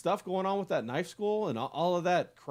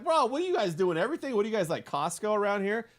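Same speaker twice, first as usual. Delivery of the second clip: higher-pitched disbelieving 'bro' questioning; mock amazement, pitched up; incredulous retold reaction; 6 semitones higher than usual. Riffing to friends about beach vendors, incredulous. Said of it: "I'm like".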